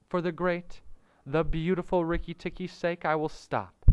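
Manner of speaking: high-pitched, fawning little songbird; Darzee the flattering bird. A narrator's reading.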